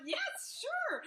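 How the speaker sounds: a quiet little victory cheer; mock triumphant. Telling the host her email bought an hour, gleeful. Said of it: "I'm like".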